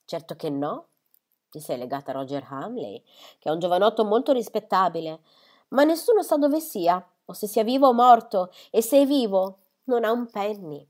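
flustered by the question, building to alarm; mother disturbed, rushing her answer. Acted. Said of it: "evidentemente turbata da questa domanda".

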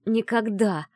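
rasped, defiant refusal; hoarse defiant cry. Acted. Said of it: "прохрипела я".

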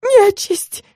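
high wailing cry of fright. A narrator's reading. Client points under the wardrobe, howls in fright. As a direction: wail it out in terror. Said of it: "завыла".

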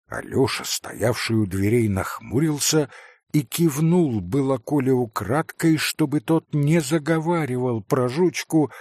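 plain reading voice

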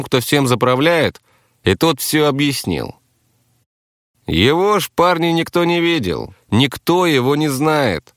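earnest captive. Acted. Captive explains the kidnapper's deal to listeners, earnest.

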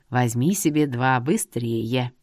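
put-on low, slow old man voice; old seer, knowing. A narrator's reading. Seer tells her about her home, low knowing old man.

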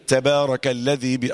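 "تبارك" with a hissed, breathy taa, slow; mock faulty recitation; imitated wrong reading. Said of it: "غلط".

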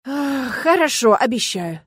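very slow, sighing reluctant yes; reluctant agreement. Acted. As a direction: give in grudgingly. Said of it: "наконец согласился Дамьен".

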